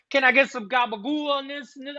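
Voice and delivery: high, put-on Italian-American voice; wife showing off Sopranos slang, mock Italian-American accent. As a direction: mimic the wife's new mobster talk. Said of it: "talking in, like, an Italian slang".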